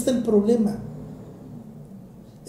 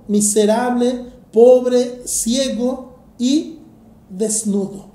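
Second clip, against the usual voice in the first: preacher reading scripture to the congregation. Acted. Reads the Bible passage aloud.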